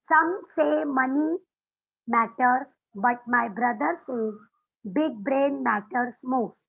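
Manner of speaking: each word drawn out slowly, chant-like; slow mnemonic. Shown as a demonstration. Teacher reciting the mnemonic to her class, slowly. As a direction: spell it out slowly for memory. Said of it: "बहुत अच्छा writing sentence है".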